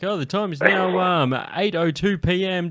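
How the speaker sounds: put-on cheesy old-school radio announcer. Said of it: "how well I fit into that radio voice".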